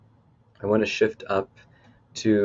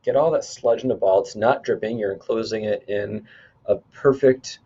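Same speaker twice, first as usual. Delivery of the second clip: measured guide talking listeners through imagery; lightly held meditation-leader delivery; guided visualization. Acted. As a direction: lead them step by step, leaning on the key words. Leads a cleansing visualization.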